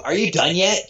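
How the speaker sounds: a hint of a parent fed up with a tantrum; stern father. Father to a kid throwing a tantrum, lightly stern. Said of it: "father to the kid that's throwing a tantrum in the middle of the living room".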